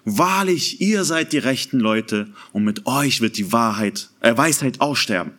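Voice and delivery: a light touch of mock praise, dry; lightly ironic quote. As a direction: hand the friends an understated ironic compliment. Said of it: "ironisch zu seinen Freunden".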